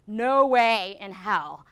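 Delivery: slow, drawn-out retold refusal; emphatic refusal. Product manager retelling sellers' answer on fixed prices, emphatic refusal. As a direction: stretch it out as a firm quoted no.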